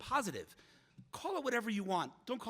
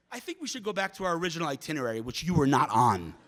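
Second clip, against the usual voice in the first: retold pointed rebuke; 4 semitones lower, 9 dB louder than usual. Other lady dropping the speaker from the itinerary, mock pointed rebuke. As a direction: imitate a curt put-down, landing hard on the end.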